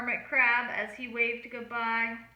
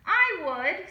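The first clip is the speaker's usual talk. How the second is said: squeaked; 5 semitones higher, 4 dB louder than usual. A narrator's reading. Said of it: "squeaked Crusty Coral".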